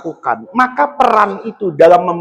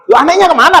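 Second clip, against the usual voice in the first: surprised; 9 semitones higher, much faster than usual. Retold or imitated. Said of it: "kata saya".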